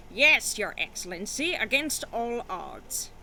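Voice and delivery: lightly voiced posh older man; a hint of a snooty elder. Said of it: "he's like a posh, older, just asshole".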